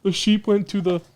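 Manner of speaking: put-on a dull kid reading a book; mock reading aloud. Mocking how he would read from notes, sing-song. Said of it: "I'm not gonna read from this saying".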